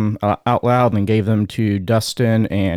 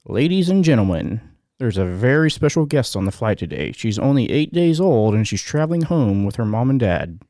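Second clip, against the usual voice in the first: intercom voice; 3 semitones higher than usual. Pretend. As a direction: announce it like cabin crew over the PA. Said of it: "Is that a good intercom voice?".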